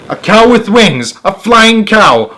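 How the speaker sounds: high, drawn-out cries of wonder; thrilled, high-pitched astonishment; amazed exclamation. A narrator's reading. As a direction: marvel aloud at each phrase. Narrator amazed by winged cow.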